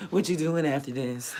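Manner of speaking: hey from a leering gym guy, imitated; mock catcaller. Mimics men harassing women at gym.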